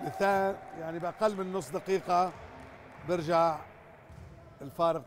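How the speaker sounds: thrilled at the quick comeback; excited. Real, not acted. Commentator reacts to a quick run.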